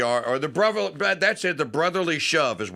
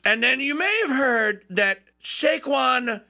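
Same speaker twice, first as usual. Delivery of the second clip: higher, slow mock Trump voice; imitating Trump; 7 semitones higher than usual. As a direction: lightly do Trump inviting Saquon. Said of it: "And he goes".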